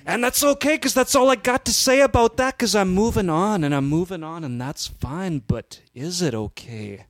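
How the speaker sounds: Macho Man. Acted. Player moving on from Elizabeth, wrestler rant fading to doubt. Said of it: "we're gonna do this Macho Man cast".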